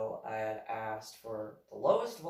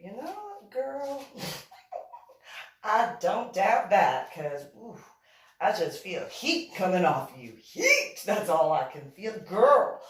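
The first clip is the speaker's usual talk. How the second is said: much higher and louder, squealing with delight; gushing excited girl; 8 semitones higher, 12 dB louder than usual. Retold or imitated. Woman telling the narrator she feels heat, in a squealing high gushing voice. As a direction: rave about the heat like a giddy fan.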